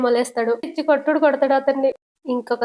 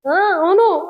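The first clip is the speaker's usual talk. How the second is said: hasty cover-up; 5 semitones higher, 4 dB louder, much slower than usual. Acted. Quick cover-up agreement.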